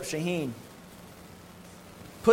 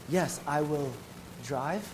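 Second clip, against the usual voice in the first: soft-spoken; 5 dB quieter, much slower than usual. Retold or imitated. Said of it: "he speaks real soft".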